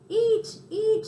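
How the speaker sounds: high, loud eager urging; urging mouse. Acted. Tucker urges the hungry cricket to eat, high and loud. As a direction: press the food on him.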